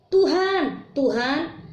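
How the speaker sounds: high, crying out Lord, Lord; pleading cry. Acted. Quoting pleading followers. (seruan memohon dengan nada tinggi)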